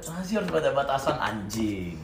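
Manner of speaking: put-on softened, half-asleep drunk mumble; imitated drunken lament. Friend imitates his drunk mate with eyes closing, subdued lament. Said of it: "Kayak rada merem gitu".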